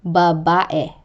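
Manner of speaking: Babae with stress on the middle -ba-; penultimate stress. Shown as a demonstration. Teacher showing penultimate stress, middle syllable stressed in Babae. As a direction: lean on the second syllable of Babae. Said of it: "given to the syllable before the last".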